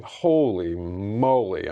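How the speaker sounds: slow, drawn-out amazement; stunned disbelief. Retold or imitated. Telling viewers about a rabbit hole, stunned. Retold stunned reaction to videos.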